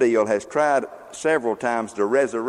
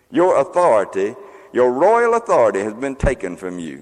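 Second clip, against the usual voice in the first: louder, booming proclamation; booming voice of God; 5 dB louder than usual. Retold or imitated. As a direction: declare it like a heavenly decree. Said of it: "one of them booming voices".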